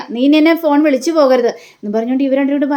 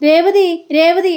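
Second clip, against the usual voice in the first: higher, drawn-out mock call; 4 semitones higher, much slower than usual. Son summons Revathi to see mother crying, calling out. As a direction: act out calling someone from another room, no real shout. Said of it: "ഒച്ചത്തിൽ വിളിക്കുകയാണ്".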